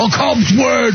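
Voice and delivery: shouted Cubs call like Harry Caray; Harry Caray impression. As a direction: bark out the ballpark call. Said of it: "People would all do Harry Caray".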